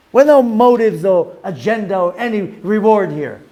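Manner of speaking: an overjoyed sage; joyful. Retold or imitated. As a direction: exult at finally serving freely. Baal Shem Tov overjoyed at loss.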